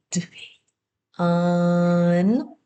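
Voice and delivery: D- then un, sounds split apart; sounding out words. Shown as a demonstration. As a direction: blend D- and un slowly. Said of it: "change none to done".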